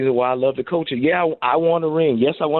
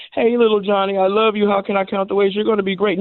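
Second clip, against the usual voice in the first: mock soft coach; 8 semitones higher than usual. Coach mocking coddling talk to a player, hammed-up sweet voice. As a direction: play the coddling coach, pitched way up. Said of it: "I'm not talking about".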